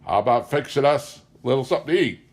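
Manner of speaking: put-on fast, loud, high drunken demand; pushy drunk. Drunk stranger demands food from the frightened wife. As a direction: lurch the words out, leering. Drunk friend lurching toward her.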